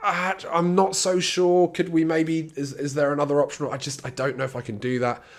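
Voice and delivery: a patient backing out nervously; unsure patient. Retold or imitated. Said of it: "that's often where they'll go".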